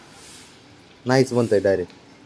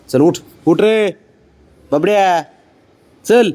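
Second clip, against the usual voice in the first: higher, coaxing voice to the dog; coaxing pet talk; 6 semitones higher, 3 dB louder, slower than usual. Real, not acted. Owner coaxing sulking dog Babdya to get up, higher coaxing pet talk. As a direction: sweet-talk the stubborn dog up.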